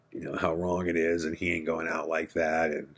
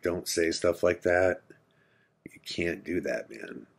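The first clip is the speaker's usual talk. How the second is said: calming hush. Retold or imitated. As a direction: talk him down gently, almost hushed. Calming armed Donnie.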